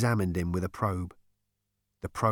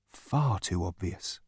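admonishing; 2 semitones lower, 4 dB quieter, slower than usual. Acted. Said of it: "admonished Marvin".

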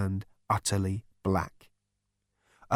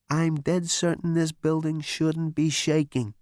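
Zaphod voice; 6 semitones higher than usual. A narrator's reading.

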